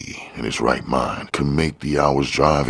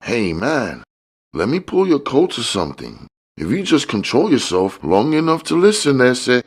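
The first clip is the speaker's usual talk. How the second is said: high, slightly louder put-on voice of a sly dealer; a much higher voice for the smiling fat man; George's voice; 13 semitones higher, 4 dB louder than usual. A narrator's reading. The dealer sizing up Curtis, high sly hustler voice.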